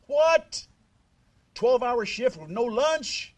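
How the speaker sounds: sharp high incredulous "What?"; indignant disbelief. Real, not acted. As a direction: react as if it can't be true. Outraged at no lunch break.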